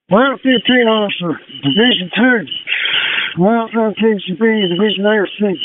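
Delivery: crackly two-way radio; crisp callouts over the radio; fire radio. Real, not acted. Fireground radio traffic.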